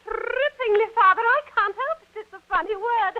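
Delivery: high, giggly helplessness; laughing protest. Acted. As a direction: try to speak through a fit of giggles. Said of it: "what are you laughing at".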